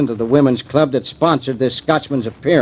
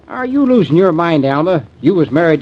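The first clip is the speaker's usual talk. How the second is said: incredulous; 4 semitones higher than usual. Acted. Sheriff reacts in disbelief to Alma's confession, high and incredulous. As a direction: blurt out your shock.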